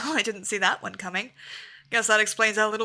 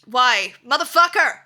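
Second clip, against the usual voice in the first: angry yell; 8 dB louder than usual. Real, not acted. Streamer cursing loudly as his wanted pet dies. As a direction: yell at the game. Beast killed.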